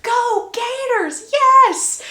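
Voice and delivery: high, loud sports cheer at the TV; whooping fan at the TV; excited yelling. Retold or imitated. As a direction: cheer for the Gators. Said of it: "Emmett screaming at the T V".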